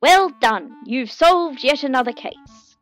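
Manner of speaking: loud, proud declaration; declaring. Acted. Captain Kevin declaring the case solved, proud. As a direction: announce it to the room. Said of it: "Captain Kevin declared".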